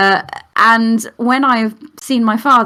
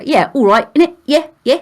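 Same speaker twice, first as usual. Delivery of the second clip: sassy estuary English, a touch louder and higher; estuary accent; 5 semitones higher, 4 dB louder than usual. Shown as a demonstration. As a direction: toss it off in cheeky estuary English. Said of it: "Harkness has a kind of estuary".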